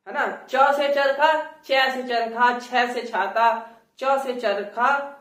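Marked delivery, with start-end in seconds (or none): 0.5-1.6 "च" with a short plain vowel, higher and louder; standard "च". Shown as a demonstration. Teacher demonstrating the standard version. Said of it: "तो ये अंतर आ जाता है". 1.6-3.7 "चै" and "छै" with open ai vowels; drawn-out Haryanvi "चै", "छै". Shown as a demonstration. Teacher showing the regional contrast. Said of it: "तो ये अंतर आ जाता है".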